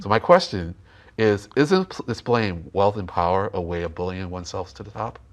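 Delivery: speaking through a face mask; words blurred behind a mask; muffled through mask. Real, not acted. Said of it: "I'm speaking through the mask and not speaking very clearly".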